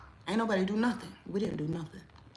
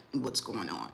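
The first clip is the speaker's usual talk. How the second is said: confused viewer; 12 semitones lower, 7 dB quieter than usual. Retold or imitated. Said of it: "anybody that's like".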